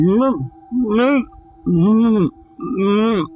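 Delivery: high, strained humming through a closed mouth; mock sleep-paralysis moaning, high and pinched; muffled cries for help. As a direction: try to call out but the mouth won't open. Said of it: "but I can't speak. So I'm going".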